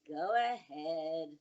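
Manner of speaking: put-on slow, resigned kid giving in; retold grudging permission. Son giving in at show and tell, retold reluctance. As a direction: give in reluctantly, dragging both words. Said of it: "he looks at me and he goes".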